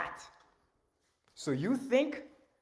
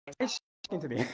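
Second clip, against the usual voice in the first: amused disbelief; much faster than usual. Real, not acted. Surprised by voice from web.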